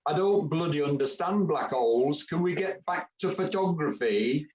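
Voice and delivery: mock posh English accent, lightly done; imitating her posh English accent. Camera club man mimics Jules at Christmas do, mock posh English accent. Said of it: "you said in your best posh, posh accent".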